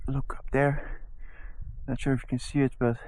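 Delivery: softly, so as not to scare the deer; hushed voice. Real, not acted. Spotting deer, keeping quiet.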